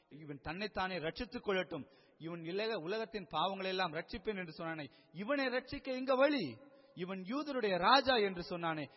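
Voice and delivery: imitating mockers, building to high loud challenges; retold jeering. Preacher acting Pharisees mocking Jesus on the cross, jeering. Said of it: "பரிகசிக்கிறார்கள்".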